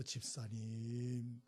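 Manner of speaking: drawn-out tearful address; slow tearful call. Retold or imitated. Deaconess taking a member's hand, slow tearful call. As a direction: stretch the name out as if about to weep.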